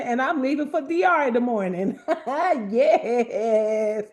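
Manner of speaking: fast, laughing excited news; laughing excitedly. Real, not acted. Host laughing about leaving for the trip. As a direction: bubble over about the trip.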